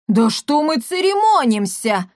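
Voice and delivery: rally the crowd; shouting. Acted. Mama Gautier rallying the crowd, shouting. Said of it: "крикнула мамаша Готье".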